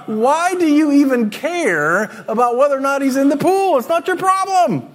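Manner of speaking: self-scolding. Retold or imitated. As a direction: scold yourself playfully.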